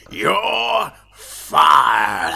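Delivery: loud, distant boss yell; boss shouting. Retold or imitated. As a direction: bellow it like an angry boss. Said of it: "and he'd be all like".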